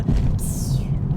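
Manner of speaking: whispered turbo psst; breathy little psst hiss; soft sneeze-like psst. Retold or imitated. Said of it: "It's almost like a sneeze".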